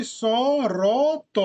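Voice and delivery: each letter sounded out separately; name the letters one by one; slow letter by letter sounding; spelling out letters. Shown as a demonstration. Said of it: "শর্তটা আমরা কেমন ভাবে পড়ি?".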